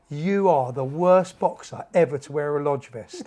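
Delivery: slow, deliberate mock telling-off; retold bollocking. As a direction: imitate a coach dressing down his boxer, word by word. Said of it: "bollocking us all".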